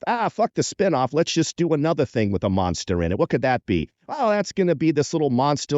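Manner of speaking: lightly put-on New York producer patter; Sid and Marty Krofft, New York accent. Producers improvise spinoff ideas, casual New York accent. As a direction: keep riffing like a New York TV hustler. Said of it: "everyone had a New York accent".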